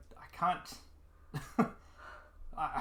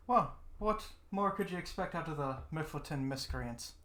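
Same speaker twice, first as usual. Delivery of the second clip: mock-boastful; 7 semitones higher, 4 dB louder than usual. Player brags in character.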